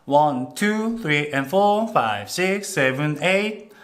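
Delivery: counting out the beat like a coach; barking gym coach. Shown as a demonstration. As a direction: call out the counts slowly. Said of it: "이런 식으로 숫자를 세는".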